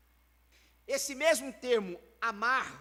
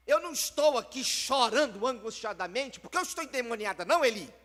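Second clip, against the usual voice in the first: earnest plea; 4 dB louder than usual. Retold or imitated. Ana answering Eli, preacher voicing.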